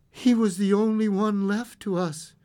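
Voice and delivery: tender, heartbroken; gentle grief. A narrator's reading. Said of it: "turning gently to the visitor".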